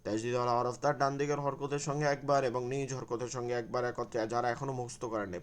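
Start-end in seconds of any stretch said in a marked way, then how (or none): 0.0-4.2 rule recited fast. Shown as a demonstration. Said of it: "পড়ে নেন এখনই".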